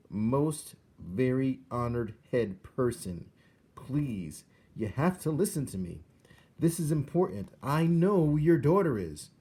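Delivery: a little mouse begging to be heard; pleading mouse. A narrator's reading. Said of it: "said Despero".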